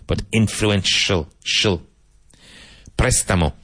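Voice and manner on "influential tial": INFLUENTIAL ending in "shul", then that syllable alone. Shown as a demonstration. Teacher contrasting spelling with sound, "influential" ending in "shul". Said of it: "Spelled I N F L U E".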